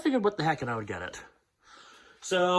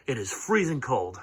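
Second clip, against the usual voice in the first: shivering. Real, not acted. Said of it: "I'm probably just shivering right now".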